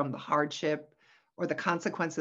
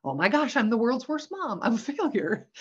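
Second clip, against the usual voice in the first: higher, louder dramatic self-blame; mock mom panic; 6 semitones higher, 5 dB louder than usual. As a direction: wail it like an overwrought mom. Voicing a mom's guilty panic.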